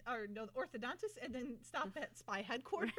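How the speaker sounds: pressured rushing speech. Retold or imitated. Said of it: "talking a mile a minute".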